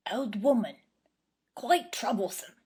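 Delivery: hushed servant's murmur, half whispered; low voice. A narrator's reading. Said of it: "in a low voice".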